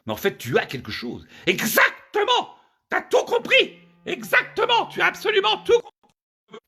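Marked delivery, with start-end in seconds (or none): 1.5-6.6 very high, drawn-out mock-female squeal; exultant woman. Woman to man who finally understood, exultant. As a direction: squeal each phrase slowly in triumph.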